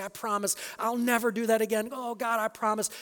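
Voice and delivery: mock churchgoer swearing to God he'll change, pleading; pleading promise. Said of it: "and you say".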